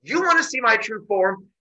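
loud, rising to a high shout; fed up. Retold or imitated. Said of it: "gets really fed up".

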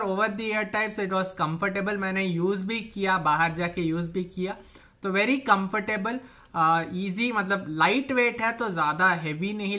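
speaking through cloth mask; through a face mask. Real, not acted. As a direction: mouth covered by fabric. Seen 1: White cloth mask covers nose and mouth throughout the labelled words.

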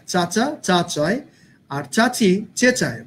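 চাচা চা চায় said slowly with crisp ch sounds; tongue twister. Shown as a demonstration. Teacher demonstrating the tongue twister slowly. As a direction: take the tongue twister slowly, hitting each ch. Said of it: "tongue twister".

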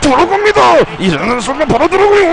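fast high hype call; excited commentary. Real, not acted. Commentating own game excitedly.

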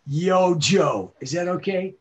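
Duke voice. Acted. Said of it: "So I went".

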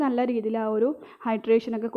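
talking while rubbing face; muffled through fingers; hands over mouth. Real, not acted. Seen 0: Applying moisturizer; hands cover mouth and nose only around 5.9–7.5s.

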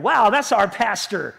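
slow, admiring wow, then a proud that's our pastor; proud and happy. Pretend. Church member proudly admiring their pastor, slow and happy. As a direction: say it like you're proud of him. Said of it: "you're gonna be so proud of me and so happy".

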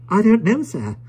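high, thin servile voice; whispering toymaker. A narrator's reading. Caleb answering his master about the stranger, hushed high voice. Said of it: "returned Caleb in a whisper".

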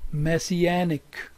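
slow "messianic", main stress on "anic". Shown as a demonstration. Teacher introduces a dictionary word, slow stress on -anic. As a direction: stretch out "messianic", leaning on the "an". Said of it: "primary stress, anic".

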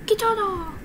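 a sudden excited cry of "Katana!"; excited call. Acted. Gamer cheering on his new sword. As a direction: blurt out "Katana!" with glee. Shouted repeat of the word.

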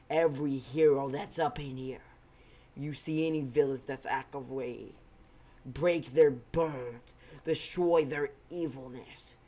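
rally the heroes like a general; commanding war cry. Acted. Izuku commanding heroes to fight.

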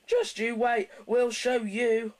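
high, loud vengeful threat; growling trucks. A narrator's reading. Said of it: "growled the trucks".

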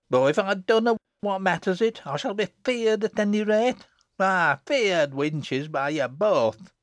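put-on loud, high, defiant child in broad dialect; sharp outburst. A narrator's reading. Jennet lashing out at two mocking girls, sharply. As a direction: rail at them, voice well up. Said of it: "cried Jennet sharply".

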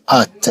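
آت ending in a light Arabic ت; آت with a non-emphatic final T. Shown as a demonstration. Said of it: "الطي الثانية نطقت كالتاء".

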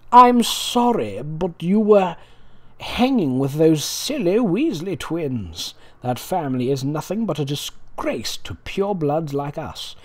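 lightly voiced sneering Draco, slowed; a hint of a drawling pureblood brat; snooty Draco. Reading Draco's fanfic apology in a mild sneer. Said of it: "he finally said".

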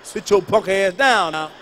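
mock furious boyfriend; angry. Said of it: "Now I'm getting angry now".

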